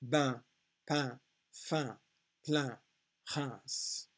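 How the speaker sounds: "bain, pain, fin, plein" each alone with nasal vowel; careful French word list, falling; phonetic reading. Shown as a demonstration. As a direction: read French "Reims" with nasal vowel and final S. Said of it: "Looking at the phonetic".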